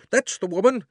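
high, loud shout punching That's; crying out again. A narrator's reading. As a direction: repeat the accusation, hitting That's. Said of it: "cried the fat man".

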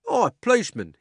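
high, loud rough cabman calling out; cockney cabby shouting. A narrator's reading. Cabby shouts over the crowd at the policeman, high and loud. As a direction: bellow at the policeman like a London cabby. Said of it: "he said".

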